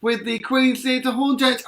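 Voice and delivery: high, slow sing-song greeting; bright welcome. Real, not acted.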